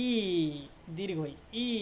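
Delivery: ই held as a long "eee"; long ee sound. Shown as a demonstration. Teacher showing the ea sound, ই held long. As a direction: sound out ই alone, drawn long. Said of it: "দীর্ঘ ইর মতো হবে".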